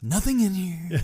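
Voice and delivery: high, loud holler into a cave; hammed-up high-pitched shout; mock calling out. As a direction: call it out to scare anything off. Acting Ace calling into the cave.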